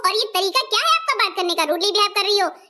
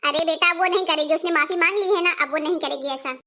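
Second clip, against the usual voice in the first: put-on lower, gentle older mother calming her son; motherly, a touch lower, pleading for the bahu; mother-in-law defending the crying daughter-in-law, lower gentle voice; mother-in-law soothing; 5 semitones lower than usual.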